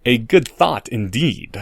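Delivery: slow, sneering drawl. Acted. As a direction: stretch every word out with contempt. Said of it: "drawled Draco".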